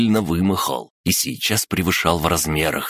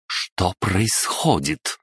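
icy voice; 3 semitones higher, much slower than usual. Acted. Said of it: "ледяным голосом спросила Несвицкая".

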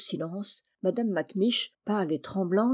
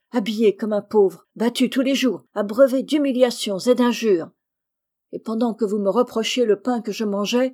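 loud, forceful listing of grievances; heated, emphatic retort; indignant reproach; 2 semitones higher, 8 dB louder than usual. A narrator's reading. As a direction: throw each wrong back at the accused. Boy lists his grievances in quarrel.

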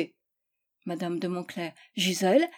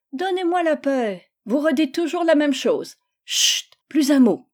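higher, teasing echo of his words; mocking mimicry; 6 semitones higher, 4 dB louder than usual. A narrator's reading. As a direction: throw his own words back at him, laughing. Elle se moque de lui. (se moquer de lui en répétant ses mots)

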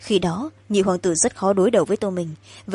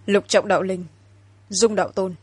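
solemn incantation. Acted. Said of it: "hắn lên tiếng".

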